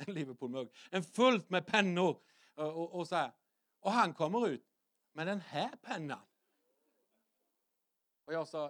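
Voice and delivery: ordinary talk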